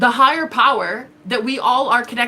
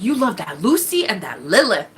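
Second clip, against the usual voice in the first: mocking taunt; 3 semitones lower than usual. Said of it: "He's like".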